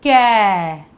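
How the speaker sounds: "कै" said loud and clear as "kai"; clear teaching demo. Shown as a demonstration. Teacher models the syllable for kids, loud clear demo. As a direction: sound out "कै" for the class, open and full. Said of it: "क्या बन गया ये?".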